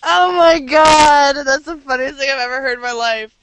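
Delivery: laughing. Real, not acted. Cracking up at teasing.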